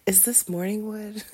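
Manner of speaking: teasing whisper. Real, not acted. Whispered joke, laughs after.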